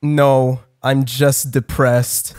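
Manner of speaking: mock sad. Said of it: "look at her with really sad eyes".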